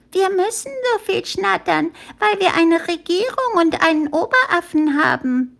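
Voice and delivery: put-on very high, childlike squeak; high put-on voice of a guileless youngster; innocent little monkey. A narrator's reading. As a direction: pipe up naively as a tiny monkey. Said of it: "sagte ein kleiner Affe, ein noch ganz unschuldiges Geschöpf".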